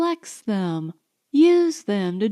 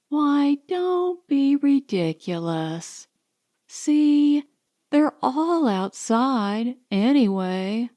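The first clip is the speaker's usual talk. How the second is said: higher, slow, dismissive lilt; airy Allison; 4 semitones higher, slower than usual. Acted. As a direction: wave his worry away lightly. Allison brushing off Marsden.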